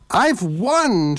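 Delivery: high, triumphant shriek. A narrator's reading. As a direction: crow over your victory. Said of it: "shrieked Salmacis".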